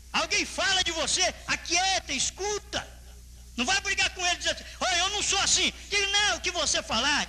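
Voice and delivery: high, commanding pulpit exhortation; preaching. Real, not acted.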